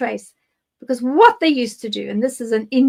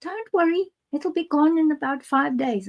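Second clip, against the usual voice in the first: lightly voiced kind secretary, higher and softer; kind reassurance; 4 semitones higher, 4 dB quieter than usual. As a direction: gently reassure a frightened girl. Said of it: "very kind secretary said to me".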